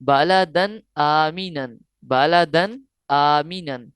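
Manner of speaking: slow measured recitation; tajweed recitation. Shown as a demonstration. Teacher repeating the phrase for students, slow recitation. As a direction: recite it twice, evenly. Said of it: "Hamza आया है".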